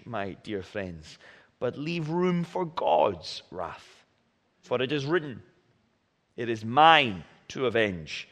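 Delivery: measured, solemn Bible reading aloud; scripture reading. Acted. Reads scripture aloud to congregation.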